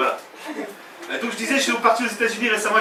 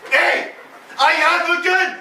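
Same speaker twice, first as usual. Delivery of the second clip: high, simple English as made for French ears; French-friendly English movie threat, pitched high; version originale pour Français; 8 semitones higher, much slower than usual. Shown as a demonstration. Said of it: "originale, mais pour les Français". (anglais de film pour Français, voix aiguë)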